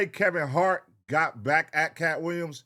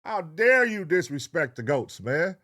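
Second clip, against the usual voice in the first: outraged; 4 semitones higher, 3 dB louder than usual. Real, not acted. Outraged repeat of complaint.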